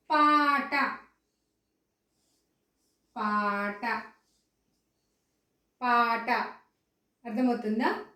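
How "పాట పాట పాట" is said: పాట with a plain hard ట; long paa, then ట without breath; unaspirated retroflex ta. Shown as a demonstration. Teacher modelling a word for spelling, పాట unaspirated. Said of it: "ఎలా పలుకుతున్నాము అనే దాన్ని".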